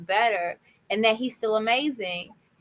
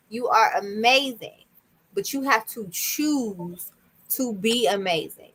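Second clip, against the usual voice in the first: affirmation recital. Shown as a demonstration. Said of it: "We do it on TikTok today".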